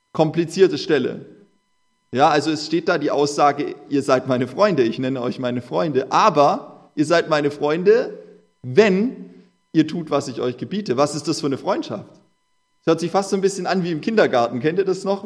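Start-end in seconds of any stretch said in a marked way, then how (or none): 3.9-11.0 slow emphatic scripture reading. Acted. Preacher quoting Jesus again to stress the condition, slowly. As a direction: weigh every word of the verse.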